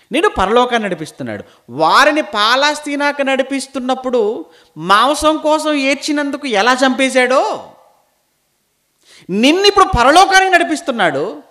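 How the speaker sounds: high, loud, sustained warning; full-force preaching. Acted. Preacher warning believers led toward heaven, loud and high. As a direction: drive the warning home at full voice.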